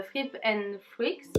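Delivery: "Fripe and Freaks" said slowly with a French accent; slow, careful French-accent take on "Fripe and Freaks"; French-accented English name. Real, not acted. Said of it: "désolée pour mon accent et pour la prononciation".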